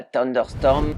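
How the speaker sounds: mock English accent on "Thunderstorm", said slowly; proudly hammed-up English "Thunderstorm". Shown as a demonstration. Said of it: "mon accent en anglais, il déchire".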